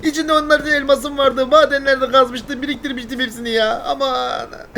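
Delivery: mourning lost diamonds, slow and high; slow, high lament. Acted. Player laments lost diamonds to viewers, slow high mock grief. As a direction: draw out each word in mock grief. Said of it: "delireceğim şimdi ya".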